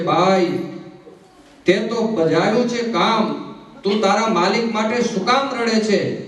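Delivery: a lightly voiced loving mother consoling; affectionate mother's words. Mother Raibai consoles her son's crying mare, spoken tenderly. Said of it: "હેત આપતા કીધું છે".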